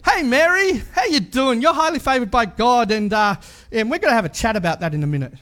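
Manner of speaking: hammed-up casual angel saying hey Mary. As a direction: play the angel as a chummy mate. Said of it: "Like, imagine that".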